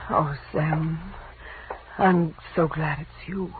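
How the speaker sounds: slow, soft and intimate; confessing affection, slow and low; tender. Acted. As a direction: melt into it. Tender moment with Sam.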